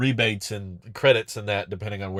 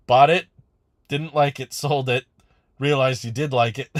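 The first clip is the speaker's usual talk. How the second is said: amused recap; 4 semitones higher, 5 dB louder than usual. Real, not acted. Mocking a viewer's buy-sell-buy story.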